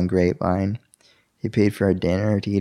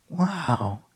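hushed, higher, amazed wow; awed wow; 8 semitones higher, 6 dB quieter than usual. Retold or imitated. Husband stunned his prayer was answered, hushed awe. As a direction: breathe it out in disbelief.

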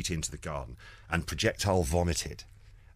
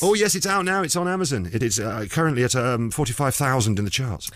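excited; 8 semitones higher, 6 dB louder than usual. Real, not acted. Plugging his DVD.

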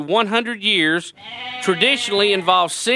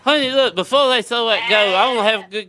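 hammy villager dad voice; 3 semitones higher than usual. Acted. Another villager character bit.

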